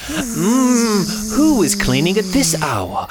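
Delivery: sleepy dad voice. Acted.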